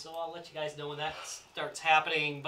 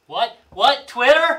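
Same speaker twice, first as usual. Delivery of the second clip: rising puzzled questions; louder and higher, lost mid-sentence; confused; 8 semitones higher, 13 dB louder, much slower than usual. Real, not acted. Forgot where, rising confusion.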